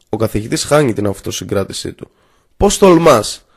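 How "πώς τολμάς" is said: a louder, higher outraged shout; furious shout. A narrator's reading. Professor shouting at the defiant student, furious. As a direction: hurl it at the student, beside yourself. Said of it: "φωνάζει ακόμα πιο δυνατά".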